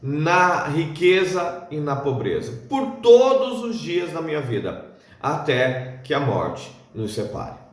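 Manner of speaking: measured, solemn vow, phrase by phrase; wedding vow recitation. Acted. Speaker recites marriage vows to listeners, solemn recitation. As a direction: recite it formally, each phrase falling at its end.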